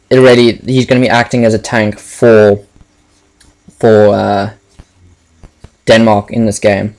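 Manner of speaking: short of breath, pausing to breathe; words squeezed out on little air; running out of air. Real, not acted. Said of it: "the reason I'm running out of breath at the moment".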